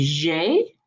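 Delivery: "J" said "zhay"; zh sound. Shown as a demonstration. Teacher showing the zh in the letter, "zhay". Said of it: "kind of a zh sound".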